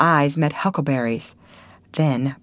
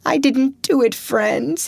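sobbing plea; 9 semitones higher than usual. A narrator's reading. Potter pleading innocence to the crowd, high and tearful. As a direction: beg them through tears. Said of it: "he sobbed".

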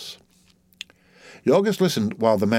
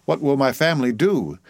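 mild frantic cry, higher; a touch of panic in the plea; 4 semitones higher than usual. Acted. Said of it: "he cried frantically".

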